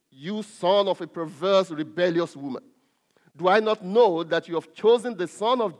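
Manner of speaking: loud, forceful scripture reading of a king's rage; aroused anger. Acted. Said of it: "Then Saul's anger was aroused".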